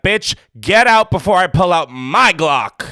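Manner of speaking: hammed-up indignant order; mock angry threat. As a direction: play at throwing someone out. Imagined angry threat to the friend.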